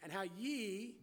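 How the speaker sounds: deliberate reading, slowing toward the end. Real, not acted. Preacher rereading the verse for the congregation, slowly. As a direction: read it out with drawn-out final words. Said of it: "Let's read verse nine again slowly".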